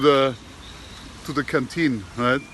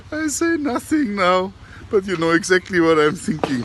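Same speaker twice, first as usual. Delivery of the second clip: parrot voice through laughter; 5 semitones higher than usual. Retold or imitated. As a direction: retell the punchline while giggling. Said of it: "And then he says".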